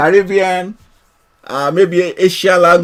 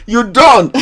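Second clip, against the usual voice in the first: mock Welsh; 4 semitones higher, 3 dB louder than usual. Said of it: "that is Welsh, man".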